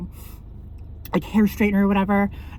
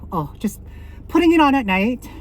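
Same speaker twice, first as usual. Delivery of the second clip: breathless after hauling water; panting slightly between words; out of breath; 3 semitones higher than usual. Real, not acted. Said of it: "sorry, I'm out of breath".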